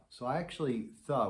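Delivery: "thuh" with the tongue tip on the teeth, soft and smooth; soft thuh tonguing. Shown as a demonstration. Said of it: "I think of it as a thuh".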